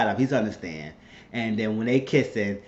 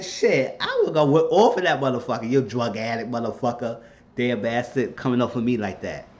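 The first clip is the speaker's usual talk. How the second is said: mock angry cursing; heated cursing. Viewer cursing out the drug addict son, heated. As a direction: vent at the son like you're in the scene. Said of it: "But I just got heated".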